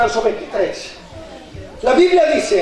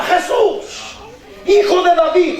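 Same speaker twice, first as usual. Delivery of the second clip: mildly raised acted call; crying out; 7 semitones higher than usual. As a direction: call out to Jesus in a preacher's retelling. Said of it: "esta mujer le gritaba". (clamor moderado)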